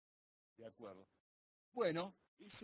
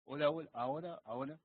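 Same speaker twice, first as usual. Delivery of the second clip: raised voice, testing the line; speaking up; 6 dB louder than usual. Real, not acted. Student testing whether the engineer hears him, speaking up. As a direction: project louder so they can hear. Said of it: "tenés que hablar más fuerte".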